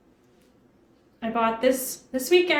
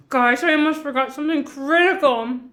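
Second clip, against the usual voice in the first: talking through a mouthful; words round a bite of food; mouth full; 3 dB louder than usual. Real, not acted. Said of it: "I'm talking with my mouth full".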